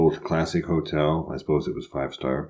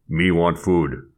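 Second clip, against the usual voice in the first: caveman-like diner; slower than usual. Retold or imitated. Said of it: "the equivalent of".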